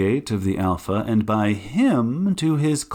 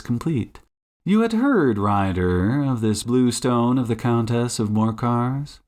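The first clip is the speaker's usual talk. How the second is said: assured detective, measured questioning; Sherlock Holmes. Acted. Detective questioning cornered suspect, measured assurance. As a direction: lay out the case with swooping emphasis.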